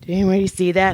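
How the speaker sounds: whispered, sheepish; embarrassed whisper. Retold or imitated. The dog voiced whispering after falling out of the car. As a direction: whisper as if hoping nobody noticed.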